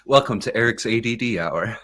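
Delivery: hint of a hammed-up host intro; mock show host. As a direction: playfully announce it like a show host.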